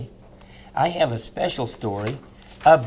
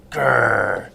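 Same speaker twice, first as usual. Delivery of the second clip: growling bully creature; 2 semitones lower, 3 dB louder, slower than usual. Acted. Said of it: "the whim is saying".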